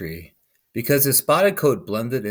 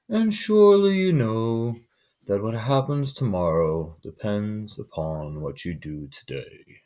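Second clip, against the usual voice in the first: anteater voice; slower than usual. A narrator's reading. Anteater pleading with the sleeping man, slow. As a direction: draw it out slow and earnest.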